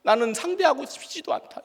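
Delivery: mildly angry retelling of wanting nothing to do with someone; angry aversion. Retold or imitated. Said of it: "이런 화가 팍".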